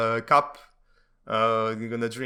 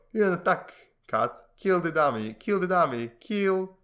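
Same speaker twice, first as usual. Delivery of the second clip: building command; 6 semitones higher than usual. Acted. Training cat to attack dummy.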